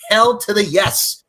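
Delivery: hyped, drawn-out affirmation; emphatic yes. Real, not acted. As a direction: land it like a verdict. Emphatic slow declaration.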